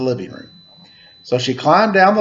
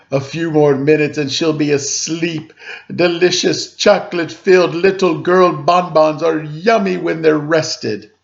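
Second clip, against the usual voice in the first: a hint of a sly, gleeful monster; lightly voiced gloating dinosaur; 3 semitones higher than usual. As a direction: savour each word like a hungry beast. Dinosaur gloating over girl.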